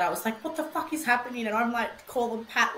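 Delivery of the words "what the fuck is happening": fast, higher panicked blurt; retold panic. Alone when the monitor beeps, quick panicked blurt. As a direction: rush it out in alarm. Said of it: "I just freaked out".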